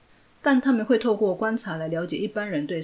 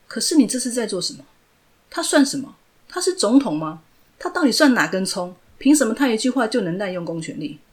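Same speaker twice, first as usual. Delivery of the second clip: indignant protest; 3 semitones higher, 6 dB louder than usual. Acted. Angry outburst at police.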